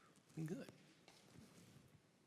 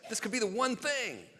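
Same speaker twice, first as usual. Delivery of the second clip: worried questions climbing higher; mock worry; 5 semitones higher than usual. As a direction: build to a high, half-joking fret. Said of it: "Get worried".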